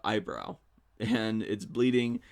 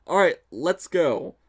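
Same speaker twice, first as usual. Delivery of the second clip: loud, higher, drawn-out rallying cry; excited co-star; 7 semitones higher, 9 dB louder, slower than usual. Retold or imitated. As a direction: imitate her pumped-up call to go. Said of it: "being very excited about this play, verbally excited".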